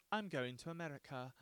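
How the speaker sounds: hammed-up British traveler; mock British accent. British person announcing a trip, mock British accent. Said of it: "if a British person was like".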